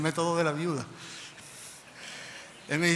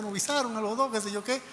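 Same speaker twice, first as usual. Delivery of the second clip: higher-pitched pleased news; happy; 6 semitones higher than usual. Retold or imitated. Husband telling his wife about their visas, happy. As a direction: retell good news with a lift in pitch.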